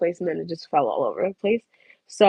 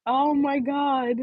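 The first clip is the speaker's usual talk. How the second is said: slow, wheezing laugh-cry; so funny it almost turns to tears; laughing helplessly; 6 semitones higher, much slower than usual. Real, not acted. To viewers after the shark story, slow laughing-crying.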